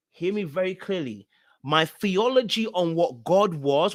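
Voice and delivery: ordinary talk, nothing marked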